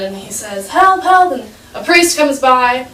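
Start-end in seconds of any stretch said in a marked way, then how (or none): 0.7-1.3 high, louder mock cry for help; calling for help. Boy in a hole calls up to passers-by, calling for help. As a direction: act out a call from below. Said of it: "the boy calls for help again".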